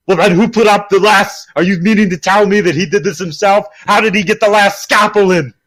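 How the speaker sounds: incredulous. Retold or imitated. Acting cop quarrel in scene.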